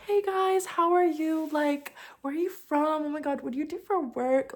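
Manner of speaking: high, singsong customer-service voice; fake cheeriness. Ruined-mood dancer greeting customers, fake cheerful. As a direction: gush with put-on friendliness. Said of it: "Like, fake, fake, fake".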